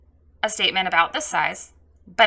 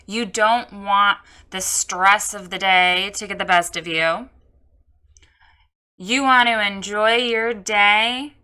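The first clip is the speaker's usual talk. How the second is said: sample copy read. Shown as a demonstration. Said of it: "See the difference?".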